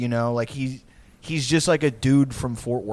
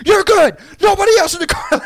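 high, loud sarcastic yell; 12 dB louder than usual. Retold or imitated. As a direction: shout it back at him mockingly. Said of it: "we're all, like, yelling at him".

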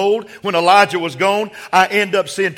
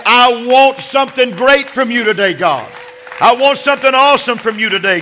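raised-voice preaching; 3 semitones higher, 3 dB louder than usual. Acted. Preacher urging the congregation to ask God for something great, raised-voice preaching. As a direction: preach it out, pitched up.

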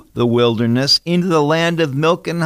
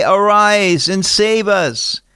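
higher, slow, drawn-out plea; calling for rescue; 5 semitones higher, slower than usual. Retold or imitated. People in trouble call to God to save them, mild drawn-out plea. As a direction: stretch it out as a mild cry for help.

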